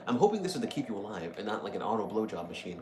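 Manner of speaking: ordinary talk, nothing marked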